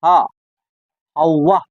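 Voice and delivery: हा and हवा with a clear, open h; h sounded clearly. Shown as a demonstration. Teacher showing students the clearly voiced h. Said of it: "मैंने हा पर जोर दिया है".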